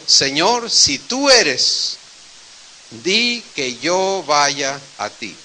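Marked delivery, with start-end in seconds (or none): 0.1-2.0 a bold but hesitant request, stretched slow; calling out to Jesus. Retold or imitated. Peter calling from the boat to Jesus, slow earnest plea. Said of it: "le gritó a Jesús y le dijo".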